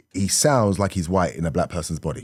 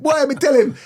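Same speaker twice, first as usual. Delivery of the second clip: high Jamaican patois, mock parent; a Jamaican parent's accent pitched high; 4 dB louder than usual. Jamaican parent talking patois at home, in a high mock accent. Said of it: "they might be talking Jamaican".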